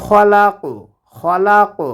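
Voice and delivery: খলাক ending with a bouncing ক; qalqalah on qaf. Shown as a demonstration. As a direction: stop on ক and let it echo back. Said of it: "কফটা কলকলার হরফ". (খলাক শব্দের শেষে কফের পাল্টা আওয়াজ)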